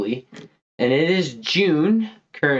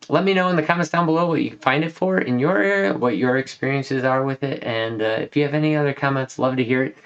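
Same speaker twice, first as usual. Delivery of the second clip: breathless, short of air between phrases; out of breath. Real, not acted. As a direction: talk while winded from a cold. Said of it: "I'm running out of breath here".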